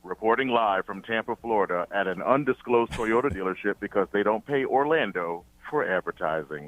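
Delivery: a hint of a live field reporter; lightly mock news read, live from the scene; newscaster voice. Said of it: "Put my newscaster voice on".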